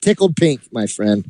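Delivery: smug scheming heel manager voice; wrestling heel manager. Acted. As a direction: gloat like a wrestling villain manager. Ben plays the potentate hate manager.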